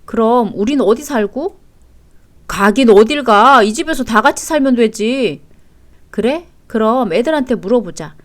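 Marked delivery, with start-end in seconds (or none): 2.5-5.4 insistent. Acted. Husband refusing to leave the family home, insistent. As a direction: shut the objection down firmly. Husband overrules wife's objection.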